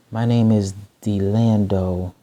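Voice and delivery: slow, deliberate self-introduction; each word of the name given room; saying my name slowly. Shown as a demonstration. Speaker showing how he introduces himself, slow and deliberate. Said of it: "I say it slow".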